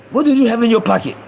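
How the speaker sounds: lightly voiced suspicious storekeeper, slightly high; Iranian shopkeeper. Shopkeeper questions boy about his pocket, lightly imitated and suspicious. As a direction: question a suspected thief in a mock owner voice. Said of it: "it was the Iranian motherfucker".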